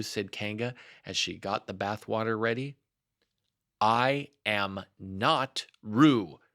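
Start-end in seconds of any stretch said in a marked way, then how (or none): 3.8-6.4 slow, louder and emphatic; insist, drawing each word out; loud protest. Acted. Piglet insisting to Kanga who he is, slow loud protest. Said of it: "said Piglet loudly".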